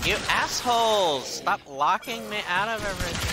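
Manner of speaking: high, loud furious shout; angry yell. Real, not acted. Gamer shouting at locked-out enemies, angry high yell.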